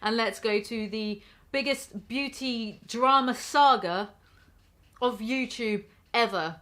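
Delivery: a hint of a history teacher, slowing it down; lightly voiced teacher. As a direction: future teacher addressing a class, mildly lectoring. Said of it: "history teachers are gonna be like".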